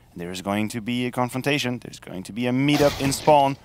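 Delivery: building hype, rising high and loud; esports caster. Real, not acted. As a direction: call the kills like a caster. Live play-by-play kill call.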